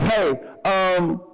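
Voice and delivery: hammed-up overeager hello; talkative greeter. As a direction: play the oblivious chatty friend. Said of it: "just like".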